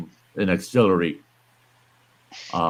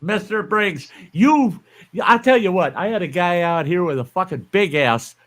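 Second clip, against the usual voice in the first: incredulous outburst; 9 semitones higher than usual. Real, not acted. Scoffing at friend's snowblower claim.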